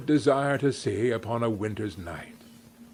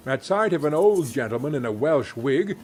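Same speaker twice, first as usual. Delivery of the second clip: plain reading voice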